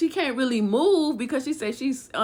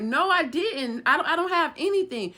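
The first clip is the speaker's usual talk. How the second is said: higher-pitched retold denial; insistent denial; 6 semitones higher than usual. Accused woman to men searching her house, insistent denial. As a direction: protest innocence, voice lifting as it goes.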